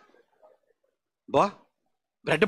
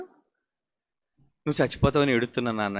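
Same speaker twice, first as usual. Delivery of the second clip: a daughter's whimpering plea, slow and low; a hint of a tearful girl; mock crying daughter; 6 semitones lower, 3 dB quieter, slower than usual. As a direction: play the daughter half-sobbing to her father. Daughter crying to father, acted.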